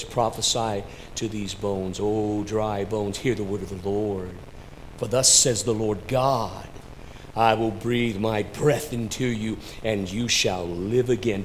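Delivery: low, measured prophetic recitation; low-pitched, solemn pulpit reading; solemn scripture reading. Acted. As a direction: intone the words of the Lord, low. Reads scripture solemnly to congregation.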